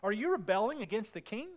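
imitating a scornful accuser; mock jeering. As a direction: question them with mild mock scorn. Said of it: "they jeered at us and despised us".

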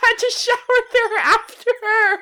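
loud, high wail through laughter; laughing outrage. Real, not acted. Complaining of having to shower after her, laughing outrage. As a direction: protest while cracking up. Helpless laughter at the vomit story.

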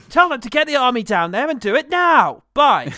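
mock action-hero shout into the phone; hammed-up movie order. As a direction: snap it like a movie general hanging up. Mock film phone call hang-up.

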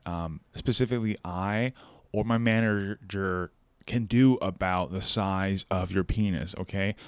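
soft, low customer-service apology; call center voice. Acted. Phone worker apologizing to an angry customer, subdued professional voice. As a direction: placate a caller, softly and formally. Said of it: "what does that voice sound like?".

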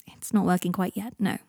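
breaking it to him kindly in a hush; gentle. Acted. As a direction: let him down gently, nearly whispering. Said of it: "said Harry gently".

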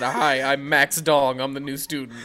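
slow self-introduction. Pretend. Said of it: "I would say that".

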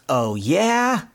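mock-indignant retort; mild retold yell. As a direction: dare it with a climbing pitch. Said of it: "Donald kinda yelling at the spring".

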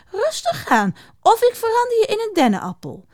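high witch voice, faltering threat; slightly unsure. A narrator's reading. Witch threatens the bristling hedgehog, a bit unsure. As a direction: threaten without full confidence, pitched high. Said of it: "het klonk een beetje onzeker".

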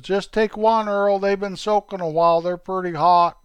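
put-on high, eager boyish voices of two kids. Two boy buddies chatting about toothpicks, high and eager. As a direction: play two excited young friends.

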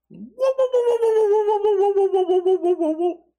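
very high, yelping whoa-whoa bark imitation, fading down; dog dream barking. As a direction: mimic a dreaming dog's high yelps. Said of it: "That's how he barks when he dreams".

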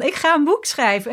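high, loud burst of inspiration; bubbling excitement. Retold or imitated. Author reliving the urge to write a book, bubbling with excitement. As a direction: blurt it out, bubbling with sudden inspiration. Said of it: "voelde ik in mijn buik bubbeltjes van".

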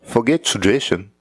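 a weak, half-hearted stab at an English accent, "Forget" stretched; lightly put-on English accent, barely off his own voice; bad English accent. Shown as a demonstration. Vlogger trying a quick English accent for Prince Harry. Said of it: "Let's see if I can do an English accent".

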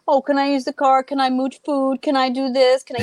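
mocking sing-song repeat of the request; sarcastic family mimicry; sarcastic mock echo. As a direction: throw the question back with a sneer. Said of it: "I'm like".

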